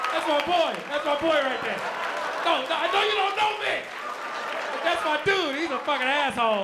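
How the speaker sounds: mock proud gloat; mocking pride. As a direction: show off your friend's failure. Telling strangers about friend.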